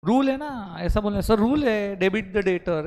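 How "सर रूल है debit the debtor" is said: confident. Shown as a demonstration. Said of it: "ऐसा confidence से बोलने का है".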